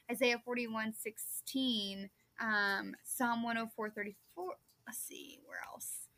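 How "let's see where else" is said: whispered aside while searching notes; muttering to herself. Real, not acted. Host looking through her notes, whispered muttering. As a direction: whisper it to yourself, hunting for the verse.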